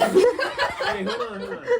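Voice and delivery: high muffled closed-lip voice; talking with mouth closed. Shown as a demonstration. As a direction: squeak it out with your mouth shut. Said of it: "There's a mouse in your mouth".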